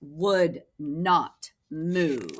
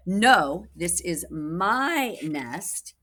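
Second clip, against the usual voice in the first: possessive; 3 dB louder, much slower than usual. Acted. Birds quarrel over nest.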